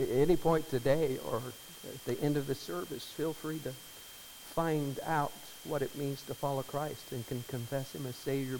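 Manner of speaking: usual speaking voice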